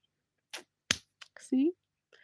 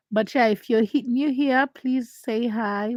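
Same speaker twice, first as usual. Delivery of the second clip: louder, higher call to newcomers; eager greeting; 3 semitones higher, 5 dB louder than usual. Real, not acted. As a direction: call out to the new viewers. Calling out to newcomers.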